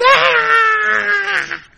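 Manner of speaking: long, high, loud scream; mock-terrified sustained shriek; imitated kids' scream. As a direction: scream like children in a rocking boat. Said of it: "the kids in the boat are going".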